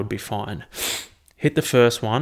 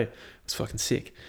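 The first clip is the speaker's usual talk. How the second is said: whispered; 10 dB quieter than usual. Real, not acted. Excited whisper about swim.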